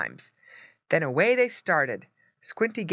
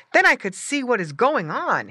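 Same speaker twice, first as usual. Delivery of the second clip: higher, louder piglet voice; wishful little pig; 8 semitones higher, 6 dB louder than usual. A narrator's reading. Squinty wishing he were bigger, wishful piglet voice. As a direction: think it aloud with longing.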